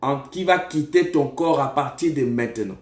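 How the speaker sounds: emphatic prophecy, pushed slightly above conversational pitch; prophetic preaching. Real, not acted. Prophet tells a caller who blocks the finances, emphatic preaching. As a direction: declare the vision with force.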